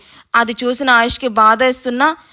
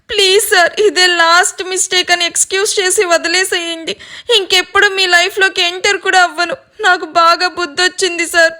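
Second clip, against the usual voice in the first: sobbing plea; 5 semitones higher than usual. Acted. Madhu keeps crying and begging.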